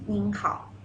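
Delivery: "ning hao" as the respectful form; polite greeting. Shown as a demonstration. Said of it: "when you will see".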